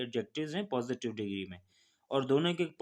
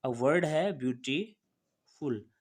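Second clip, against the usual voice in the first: slow, drawn-out example; much slower than usual. Shown as a demonstration. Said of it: "तीन syllabic हैं".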